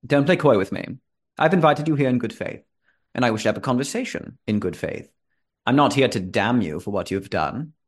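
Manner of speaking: lightly voiced stern power-holder, deliberate emphasis; stern, composed host. Host warns a guest invited in good faith, sternly composed. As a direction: deliver a measured warning, in character.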